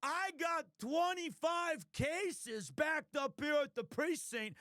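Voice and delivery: distant, muffled, high detective grumble; Gumshoe voice. Shown as a demonstration. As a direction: gripe like a harried cop from afar. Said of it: "I go like".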